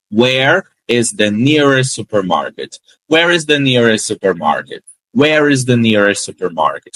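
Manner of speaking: Where is the nearest supermarket linked, nearest losing its t; fluent model. Shown as a demonstration. Teacher modelling the sentence for students to copy. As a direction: say it as one flowing phrase. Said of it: "eu nem pauso".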